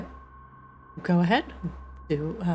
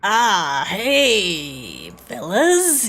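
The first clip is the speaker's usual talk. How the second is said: dark whisper behind you; 9 semitones higher, 8 dB louder, much slower than usual. Acted. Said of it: "You hear a voice from the darkness".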